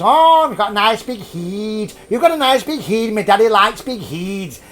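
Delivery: a hint of a creepy Scottish cave child; Scottish accent. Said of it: "I'll do that again in Scottish".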